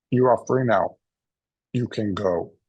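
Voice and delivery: lightly attempted Terminator accent; a rough go at Terminator-style German English; Klaus, Terminator accent. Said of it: "Terminator accent. I'll try".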